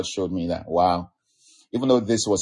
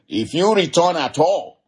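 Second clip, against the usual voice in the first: slowed, weighty prophet's warning with a chuckle; Micaiah's grave warning; 7 semitones higher, slower than usual. Retold or imitated. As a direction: lean on it slowly like a prophecy.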